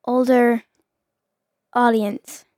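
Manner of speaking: measured, mock-professional delivery; careful, spaced-out announcer phrasing. Shown as a demonstration. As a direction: say it like a professional, word by word. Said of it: "you gotta sound professional".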